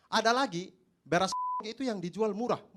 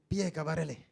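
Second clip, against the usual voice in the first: put-on Javanese accent; 3 semitones lower than usual.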